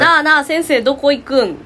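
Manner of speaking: chummy Senshu dialect, no deference; casual Senshu dialect. Retold or imitated. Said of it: "先生に敬語使った記憶ないのよ". (先生に馴れ馴れしく泉州弁で)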